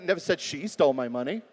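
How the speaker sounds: single out "she" as the word in doubt; stress on SHE. Shown as a demonstration. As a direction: lean hard on "she". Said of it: "Could have been somebody else".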